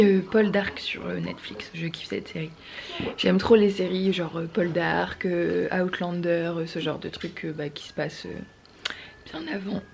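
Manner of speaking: husky just-woke-up voice; morning voice. Real, not acted. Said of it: "j'ai encore ma voix du matin".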